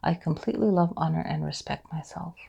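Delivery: affirmation with a pause left after each phrase; pause for repeating. Shown as a demonstration. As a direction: leave space for the class to echo. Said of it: "notice the pause in between so you can say it".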